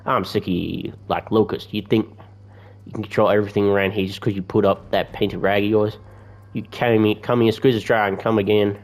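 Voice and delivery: badly faked American accent; attempted American accent. Oleg complains to the tax collectors, badly faked American accent. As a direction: try an American accent for a fed-up trader. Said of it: "I can't do an American accent".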